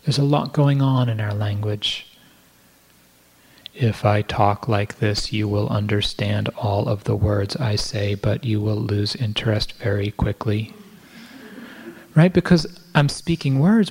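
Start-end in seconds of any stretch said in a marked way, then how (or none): 3.7-10.7 detached monotone. Shown as a demonstration. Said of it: "but I'm not speaking to you".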